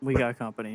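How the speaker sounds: casual, understated, low-key delivery. In character, warning the group of approaching footsteps: speaking really quietly. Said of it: "just really quietly".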